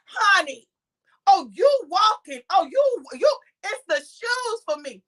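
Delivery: high, swooping hype; Kenya. Retold or imitated. Kenya hyping the walk, retold.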